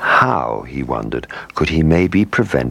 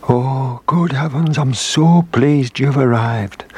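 put-on high, slow breathless old whale; weak and out of breath; 10 semitones higher, slower than usual. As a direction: gasp it out weakly, winded.

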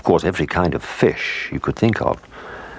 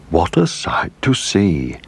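lobster voice; 3 semitones higher than usual. Acted. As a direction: declare it like a lobster. Lobster character speaks.

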